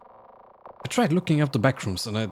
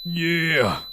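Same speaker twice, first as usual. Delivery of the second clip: excited cheer; 5 semitones higher, slower than usual. Real, not acted. Finally wins the fight.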